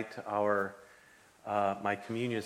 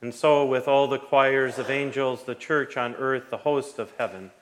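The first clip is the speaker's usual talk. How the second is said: liturgical prayer; 4 dB louder than usual. Acted. Pastor chants eucharistic prayer.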